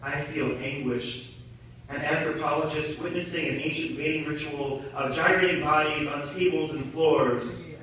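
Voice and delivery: quiet, weary admission; subdued confession. Acted. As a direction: drop the volume and confess it with shame. Poem drops to ashamed confession.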